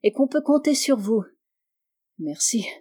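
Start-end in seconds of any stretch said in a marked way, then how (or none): 2.2-2.7 moved. A narrator's reading. Diplomat thanking the lady who moved him, moved. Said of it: "fit Malisoff ému".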